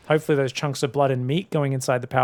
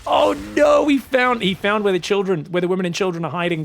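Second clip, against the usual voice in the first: high, louder alarmed cry; excited dismay; 3 semitones higher, 5 dB louder than usual. Real, not acted. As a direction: react in alarm as the drones get found. Drones found by Oracles.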